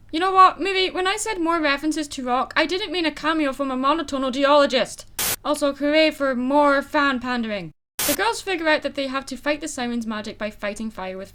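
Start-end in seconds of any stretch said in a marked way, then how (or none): 0.1-7.7 annoyed rant. Real, not acted. Annoyed rant addressed at the movie.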